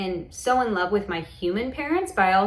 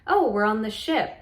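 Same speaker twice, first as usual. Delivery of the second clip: lightly playful, with a swooping "oh"; mildly playful re-enactment; 2 semitones higher than usual. Shown as a demonstration. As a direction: play it up a little, like a kid discovering something. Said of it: "like, kind of playful".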